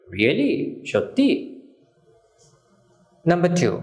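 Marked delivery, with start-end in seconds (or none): 0.1-0.9 rising surprised really. Shown as a demonstration. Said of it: "আমরা এভাবে বলতে পারি". 0.9-1.6 high whispered সত্যি, pitched well up; breathy surprised really. Shown as a demonstration. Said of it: "আমরা এভাবে বলতে পারি".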